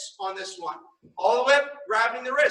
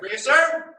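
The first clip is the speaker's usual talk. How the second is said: crisp, loud yes sir; 5 semitones higher, 3 dB louder than usual. Shown as a demonstration. Instructor modeling the proper answer for the student, loud and crisp. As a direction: snap back a loud, rising yes sir. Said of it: "And face in front".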